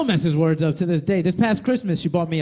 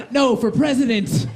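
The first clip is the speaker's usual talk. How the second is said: campaign backers; 6 semitones higher, slower than usual. Retold or imitated.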